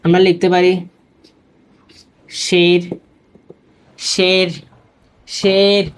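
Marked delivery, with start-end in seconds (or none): 2.3-5.8 শের with a long, open e vowel; majhul e. Shown as a demonstration. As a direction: hold the e in শের, never sliding to ee. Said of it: "একারের মতো হয়".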